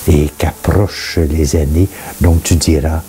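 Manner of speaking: measured recitation with pauses between phrases; solemn scripture reading. Acted. Reading Ecclesiastes aloud for listeners to reflect on, measured scripture reading. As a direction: read it as sacred verse, phrase by phrase.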